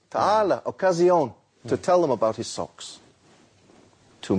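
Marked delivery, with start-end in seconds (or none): 0.1-1.3 lightly voiced vendor, inviting and a bit raised; boy inviting passers-by to his sale with a nice voice; friendly hawker call. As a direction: coax customers over pleasantly. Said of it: "with a nice voice".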